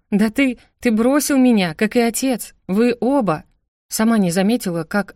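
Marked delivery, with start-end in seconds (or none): 0.1-3.4 raised, heated reproach; hurt accusation. Acted. Sister accusing brother and father of abandonment, hurt and heated. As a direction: accuse him with mounting indignation.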